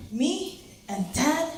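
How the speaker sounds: loud, high, halting mom voice; mom impression. Mom's halting answer, acted in broken English.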